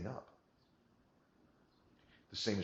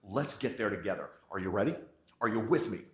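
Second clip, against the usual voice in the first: louder, confident rally speech; certain, motivating; 2 semitones higher, 5 dB louder than usual. Shown as a demonstration. Salesperson rallying a client with loud confident certainty. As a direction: pump the room up with certainty. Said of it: "You tell them with certainty".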